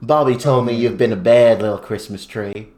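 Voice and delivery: lightly put-on country accent. Contestant imagining the tree quote as country, mock country accent. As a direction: try the line in a country accent. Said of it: "country accent with that".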